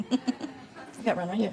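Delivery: slow, laughing through the words; amused, laughing reply. Real, not acted. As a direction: chuckle it out slowly. Joking about having a globe.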